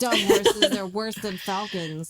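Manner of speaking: loud, slow mock scolding; angry shout. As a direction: bellow it at the horses. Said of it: "and then he's like".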